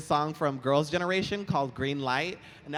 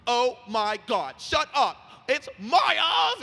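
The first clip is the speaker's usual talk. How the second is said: high, louder, slow excited shriek; imitating a screaming fan; 10 semitones higher, 7 dB louder, slower than usual. Imitating the tipsy fan screaming in the street. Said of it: "he was just screaming".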